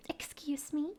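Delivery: whispered, overly polite; a hushed courteous excuse me; soft polite whisper. Shown as a demonstration. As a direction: breathe it delicately. Polite phrase set against Norwegian.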